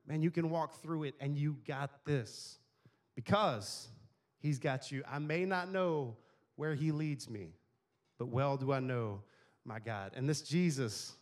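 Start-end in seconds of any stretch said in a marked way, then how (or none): 1.4-5.0 slow, lower, each phrase spaced out; preacher dropping low to drive it home; slow emphatic close. Acted. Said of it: "preacher emphasis". 5.1-10.1 slow, dropping lower to a hush at the end; a slow, hushed closing line; slow reverent quote. Retold or imitated. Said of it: "repeats Luther quote".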